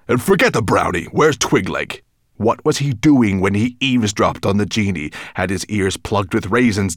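gruff, irritable monster voice; a hint of a menacing beast; grumpy dragon. Dragon voice held.

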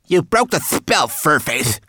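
high, loud shout of blame; alarmed cry. A narrator's reading. Twigleg scolds Sorrel for breaking the spell, alarmed cry. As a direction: cry out an accusation, high-pitched. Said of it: "cried Twigleg".

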